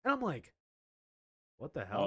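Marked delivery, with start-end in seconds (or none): 1.6-2.1 low-pitched, understated disbelief; retold low-key bewilderment; bewildered undertone. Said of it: "at that exact volume, in that exact tone".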